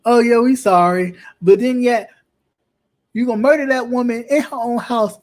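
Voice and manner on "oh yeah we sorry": mock apology. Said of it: "and go".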